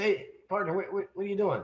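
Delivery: a hint of a startled 'hey partner'; calling out to a stranger. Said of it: "So I say".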